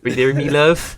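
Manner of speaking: high, loud mock West Country farmer; playful West Country farmer twang; West Country farmer accent. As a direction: put on a hammed-up rustic West Country burr. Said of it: "fucking farmer shit down here".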